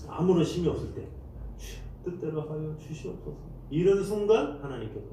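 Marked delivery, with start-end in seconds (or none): 1.6-3.4 softer, spent prayer of giving up; surrendered prayer. Retold or imitated. Preacher voicing a worn-out believer, soft surrender. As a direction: let it go, exhausted.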